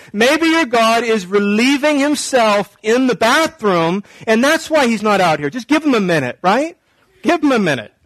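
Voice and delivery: playful taunt with mock patience. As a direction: make fun of them, pretending to excuse their god. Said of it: "Just totally mocking them".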